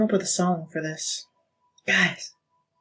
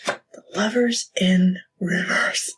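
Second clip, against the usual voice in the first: whisper; slower than usual. Real, not acted. Card named, hushed.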